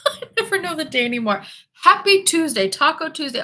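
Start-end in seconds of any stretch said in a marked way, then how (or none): 1.7-3.4 cheery high call. Real, not acted. Host cheering the day to her chat, high and loud.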